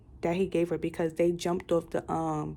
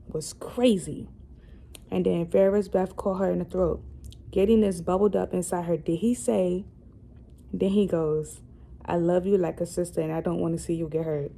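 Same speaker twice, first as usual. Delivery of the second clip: louder, steady book-reading voice; reading a novel aloud; 3 dB louder than usual. Acted. Vlogger reading a romance novel to viewers, story reading. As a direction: read the scene out to your viewers.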